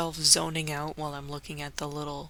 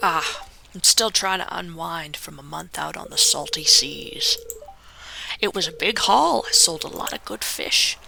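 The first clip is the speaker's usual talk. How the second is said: a hint of a hearty sea dog greeting a newcomer; fisherman voice; 3 semitones higher than usual. Gamer voicing the fisherman who welcomes the newcomer, hearty. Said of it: "don't know if I'm gonna keep that voice for him".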